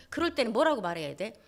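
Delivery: ordinary talk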